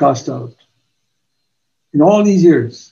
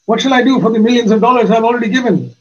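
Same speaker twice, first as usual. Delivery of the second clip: higher, pleading voice of a worried king; pleading Amaziah; 7 semitones higher, faster than usual. Retold or imitated. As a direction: plead like a man afraid for his money. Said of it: "Amaziah said to the man of God".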